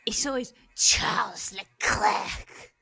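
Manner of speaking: slow mock French accent, drawn out. Retelling the driver's radio in a mock French accent. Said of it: "the craziest French accent".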